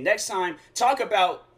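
mock telling-off, a touch of anger; mildly mad. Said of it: "I got mad".

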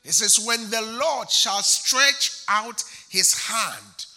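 loud, slow, hammered sermon lines; slow loud chanted preaching; full-force preaching. Acted. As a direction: drive each phrase home to the congregation.

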